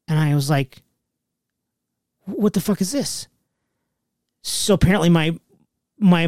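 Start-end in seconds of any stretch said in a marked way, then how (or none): 2.2-3.3 slightly raised, stunned question; puzzled disbelief, voice held back; retold bewilderment. Reacts to discovering unknown wife.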